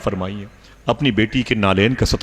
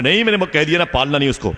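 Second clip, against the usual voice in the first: higher, insistent no; firm refusal; 6 semitones higher than usual. Retold or imitated. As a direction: shut her down firmly. Husband rebuffs crying wife. (रोती बीवी को झिड़कता शौहर, ऊँची ज़िद्दी आवाज़)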